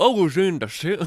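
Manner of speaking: very high, loud, put-on southern twang. Retelling what a man said about being on tour, in a put-on southern twang. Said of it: "he's kind of got like the southern twang".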